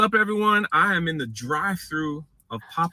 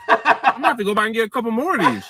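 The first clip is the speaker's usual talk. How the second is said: loud, laughing rave about the taste; excited; 8 semitones higher, 5 dB louder than usual. Real, not acted. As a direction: gush over the flavor, high and loud. Raving about chicken taste, laughing.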